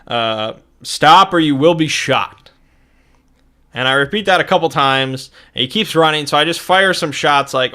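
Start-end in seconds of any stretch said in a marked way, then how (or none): 0.8-2.5 slow, louder challenge; lightly acted shout, each word measured out; mild shouted warning. Player warns the running man through the bear's speaker, mild shout. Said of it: "I shout".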